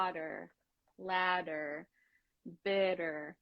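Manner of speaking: "water, ladder, bitter" as separate drill words, middles tapped; tapped middle consonant. Shown as a demonstration. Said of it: "mimics that, um, R sound".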